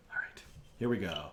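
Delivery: unvoiced whisper to himself. Real, not acted. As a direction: breathe the words under your breath. Whispered to himself before restarting.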